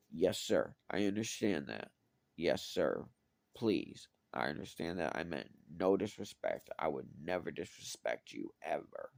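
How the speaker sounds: submissive pleading. Retold or imitated. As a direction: grovel quietly to the boss. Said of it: "I'm really giving it my all".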